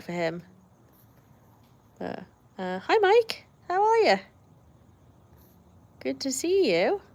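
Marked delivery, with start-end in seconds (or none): 2.8-7.0 cheery greeting. Real, not acted. Greeting a viewer arriving.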